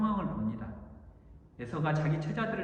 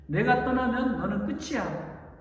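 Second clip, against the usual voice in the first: slow, louder, higher warning; final ultimatum; 5 semitones higher, 5 dB louder, slower than usual. Acted. God giving Jacob a final warning, slow and firm. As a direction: lay down the last word, slowly. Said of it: "최후 통첩을 하시는 거예요".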